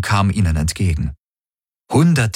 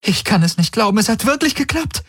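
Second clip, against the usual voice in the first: high, disbelieving cheer; can't believe it worked, overjoyed; jubilant. A narrator's reading. Kirai hugging Galen: high jubilant disbelief. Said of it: "Kirai fiel Galen jubelnd um den Hals".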